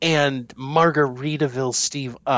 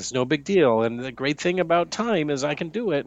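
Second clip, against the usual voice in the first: normal talking voice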